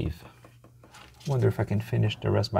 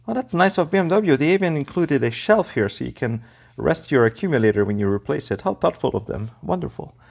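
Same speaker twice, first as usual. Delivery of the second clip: sarcastic; 5 semitones higher than usual. Real, not acted. Mock praise of car design.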